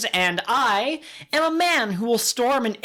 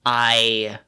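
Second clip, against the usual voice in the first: over enunciating; 6 semitones lower than usual. Retold or imitated. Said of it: "I don't enunciate worth crap".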